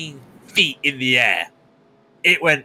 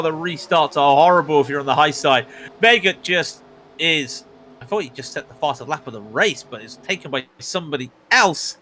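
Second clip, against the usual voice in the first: running race commentary at an even pace; steady play-by-play. Acted. Commentator narrating an overtaking battle, steady race call. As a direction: call the battle on track as it happens.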